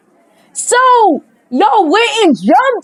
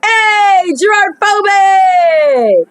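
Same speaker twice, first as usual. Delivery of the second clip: calling out; 4 semitones higher, much slower than usual. Acted. Character calls out the player.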